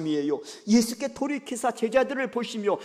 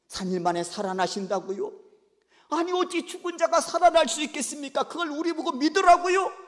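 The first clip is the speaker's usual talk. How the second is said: rising, louder incredulous objection; indignant protest; 7 semitones higher, 4 dB louder than usual. Acted. Peter refusing to believe the resurrection, incredulous. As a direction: scoff at the idea of rising. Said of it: "그러면서 막 항변했다는 거예요".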